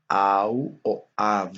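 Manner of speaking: au o av, spoken slowly and clearly; careful classroom demonstration; spelled-out transliteration. Shown as a demonstration. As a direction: read each transliteration slowly. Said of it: "Transcrito al latín".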